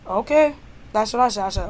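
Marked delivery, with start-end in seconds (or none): 0.1-0.5 retold okay with a questioning lift; mildly sassy rising okay; cheeky okay. Student answering the vice principal, mildly cheeky. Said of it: "you do not use that tone".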